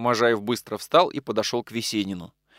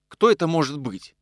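ordinary delivery

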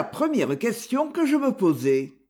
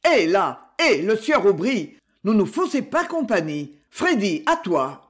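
louder hail to stop a fleeing man; calling out; 3 dB louder than usual. Acted. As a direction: call him back, then hand off to Freddy. Mareuil calls out to stop Aubry. (appel lancé plus fort pour arrêter un fuyard)

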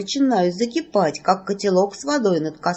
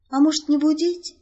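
plain reading voice

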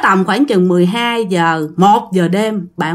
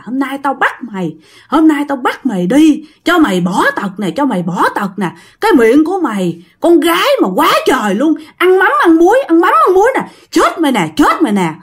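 higher, threatening scold from the shadow man; fierce scolding; 5 semitones higher than usual. Retold or imitated. Shadow man pinning her down and threatening, fierce. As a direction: growl threats down at her, rising on ăn mắm ăn muối. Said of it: "Cái giọng của ổng rất là hung dữ".

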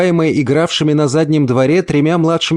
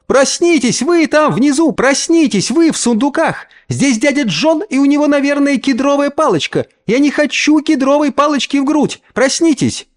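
put-on high panicky child's call, much higher; frightened child calling; 13 semitones higher than usual. A narrator's reading. Youngest girl cries down to the cellar in fear. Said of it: "Самая младшая сама расплакалась".

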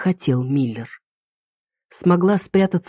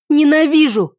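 высоко и громко, с ненавистью; выплюнь ненависть; яростный крик; 9 semitones higher, 4 dB louder than usual. A narrator's reading. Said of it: "вырвалось из меня". (яростный крик героини Тиме)

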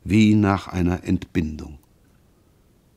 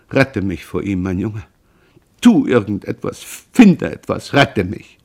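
desperate cry; 4 dB louder than usual. Acted. Mother begs her son to save her, desperately. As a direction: beg for rescue with mounting despair. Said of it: "rief verzweifelt".

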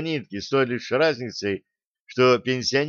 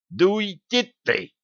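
much higher, slow, exasperated; irritated cry at a clucking companion; 8 semitones higher, slower than usual. A narrator's reading. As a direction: shove him off with your voice. Milovan shoves fussing Nikodim away.

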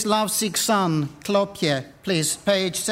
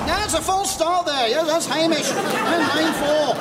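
higher, excited race caller; sports commentary; 6 semitones higher than usual. Acted. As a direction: call the false start and the off like live track commentary. Race commentary on false start.

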